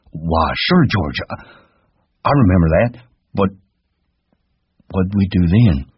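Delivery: put-on high, childlike giant voice; Lenny asking George timidly; simple Lenny. A narrator's reading. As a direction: ask like a trusting child.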